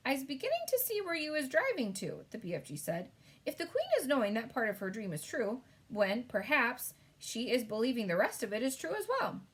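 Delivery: a hint of a gentle giant, eager; big friendly giant voice. BFG's speech in read-aloud story.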